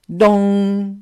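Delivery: one loud, long clock stroke; clock chime. A narrator's reading. Narrator imitates the last stroke of midnight, loud chime. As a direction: ring it out like the final stroke. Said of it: "L'horloge sonna le dernier coup".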